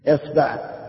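اصبع as "isba'", i first, a second; i then a. Shown as a demonstration. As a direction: say اصبع as IS-ba'. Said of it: "ثلاث مع كسر الهمزة".

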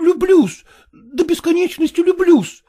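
tearful. Acted. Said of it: "слезливо воскликнул".

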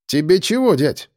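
put-on offhand cheeky kid; casual teen voice. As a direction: toss it off like a bored teen. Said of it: "буднично спросил он".

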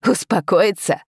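mild, mirthless incredulous retort; pained laughter. A narrator's reading. Prince mocks father's order, pained and incredulous. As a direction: throw the word back, hurt. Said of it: "в этом смехе не было ни капли веселья, только боль".

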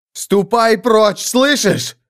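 a hint of a strained croak; high, slow warning. A narrator's reading. Hero repeats the command.

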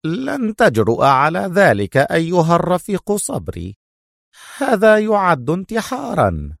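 nervous officer. A narrator's reading. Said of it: "ازدرد إيفان ريقه بصعوبة".

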